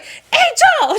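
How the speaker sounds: high-pitched mock yell through laughter; high, giggly retold outburst; startled friend. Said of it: "And she's like".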